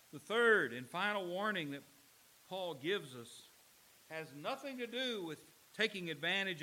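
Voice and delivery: loud, measured pulpit delivery; preaching. Real, not acted. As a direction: drive each phrase home to the church. Closing sermon point, raised.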